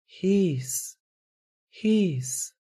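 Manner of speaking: a high hushing voice from far away. Acted. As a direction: hush them from the far end of the hall. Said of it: "یک صدا از خیلی دور". (صدای هیس از خیلی دور)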